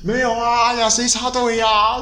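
high, slow, feigned innocence; mock innocent denial. Imitating queue-jumpers denying it.

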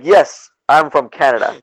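firm, emphatic "Yes"; insistent. Retold or imitated. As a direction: answer a doubter with mock patience. Retold insistent answer to doubter.

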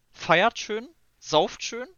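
high, upbeat farewell call; cheery call. Real, not acted. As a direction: cheer them into the weekend. Cheery outro to listeners.

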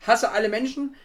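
loud, slow furious outburst; angry rant. Real, not acted. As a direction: vent your rage at the thief. Rant about stolen water filter.

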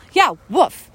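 woof without the L; mock stubborn woof; imitating woof for wolf. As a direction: mimic him insisting woof. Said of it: "with an L?".

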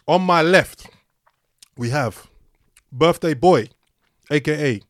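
talking with mouth full; speaking around a sweet. Real, not acted. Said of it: "Bro, finish the sweet before you do".

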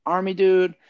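high, drawn-out thrill; retold excited realization, pitch held up. Recalling his own thrill at a buddy's interest, excited. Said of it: "And I was so excited".

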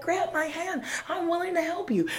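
high, earnest offer of help; urging helper. Acted. People above calling to a climber, acted urging. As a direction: reach down to a struggling climber, pitched high.

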